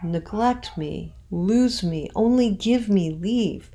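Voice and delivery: slow with each stress marked; scanned reading. Shown as a demonstration. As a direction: tap out the meter. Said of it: "That scans".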